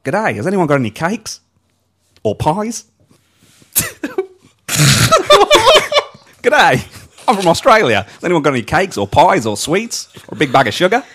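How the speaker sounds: put-on Australian accent. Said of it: "Rebel Wilson".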